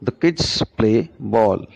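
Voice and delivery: put-on slow, with "kids" and "ball" stressed and "The" reduced; teacher showing the same beat with an added word; slow rhythm demo. Shown as a demonstration. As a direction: stretch the beats of "The kids play ball". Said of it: "the time taken by kids play ball is more".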